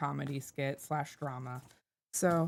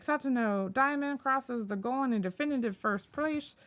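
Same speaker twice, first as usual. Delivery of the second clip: announcer voice; 6 semitones higher than usual. Acted. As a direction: race announcer calling the finish. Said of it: "an announcer voice go over".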